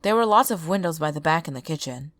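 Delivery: lightly voiced tired drifter; weary stranger voice. Stranger tells his story.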